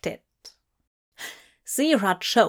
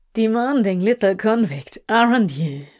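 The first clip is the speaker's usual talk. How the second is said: teasing smirk, louder; 4 dB louder than usual. Acted. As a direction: tease him with a smirk. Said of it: "Crowley smirked".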